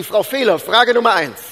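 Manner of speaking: laut und erhöht abfragen; strenge Prüfungsfrage. Retold or imitated. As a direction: wie ein Prüfer die Frage ausrufen. Als Pastor die Mutter abfragen. (lauter, nachgespielter Prüferton)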